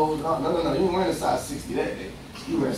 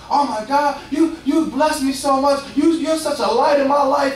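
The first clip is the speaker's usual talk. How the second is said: gushing stranger; 6 semitones higher than usual. Retold or imitated. Stranger in the street gushing thanks to the believer, delighted. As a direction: pour out thanks like you've been blessed. Grateful stranger hearing the word.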